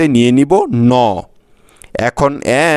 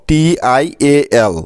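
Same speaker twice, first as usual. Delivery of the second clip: টিআইএএল read out letter by letter, slowly; name each letter of টিআইএএল slowly; letters spelled out; much slower than usual. Shown as a demonstration. Teacher pointing out the letters to students, slow spelling. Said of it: "তারপরে আছে দেখো".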